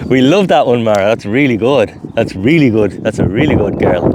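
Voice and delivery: bright sing-song praise for the dog. Real, not acted. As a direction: reward her with your voice. Praising the dog after a trick.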